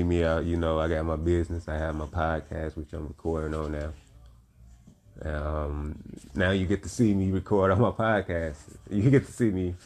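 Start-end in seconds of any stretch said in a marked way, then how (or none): 6.3-9.7 teary. Real, not acted. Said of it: "I ain't gonna get teary, you know, emotional".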